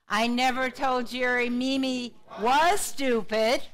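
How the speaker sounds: slow sentence, hit was hard; stress on was. Shown as a demonstration. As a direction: insist on was, lifting it above the rest. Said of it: "putting the emphasis on a different word".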